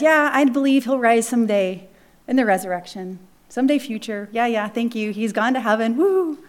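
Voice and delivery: mock dismissive brush-off with a sarcastic cheer; hammed-up hollow thanks; platitude. Martha brushes off comfort, mock sarcastic. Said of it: "This is platitude".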